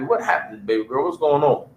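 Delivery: a father quietly checking on his daughter; gentle fatherly question. Pretend. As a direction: ask your baby girl tenderly what's wrong. Parent asking troubled daughter gently.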